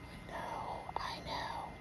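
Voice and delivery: hushed, whispered comfort; soft soothing whisper. Real, not acted. Soothing the baby, barely voiced.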